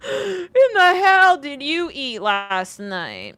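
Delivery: slow, drawn-out, loud mock disgust. Reader reacting to his gross line with slow loud disgust. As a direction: stretch it out like the words turned your stomach.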